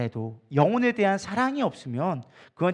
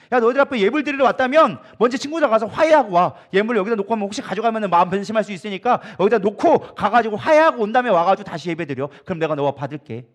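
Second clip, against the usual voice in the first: lightly voiced, louder, fatherly command; voice of God; 2 semitones higher, 5 dB louder than usual. God telling worshippers to reconcile first, louder and firm. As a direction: give the order like a caring father sending kids off.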